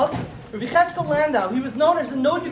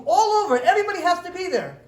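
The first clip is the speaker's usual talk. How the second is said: repeated louder and faster, a laugh in it; louder announcement; 4 semitones higher, 3 dB louder than usual. Retold or imitated. Everybody has to be there, called out louder. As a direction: rabbi calling the whole town to come, mock loud announcement. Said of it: "he said an announcement".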